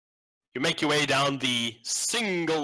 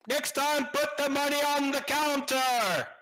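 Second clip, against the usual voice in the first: put-on high, slow shouting old smith; deaf smith voice.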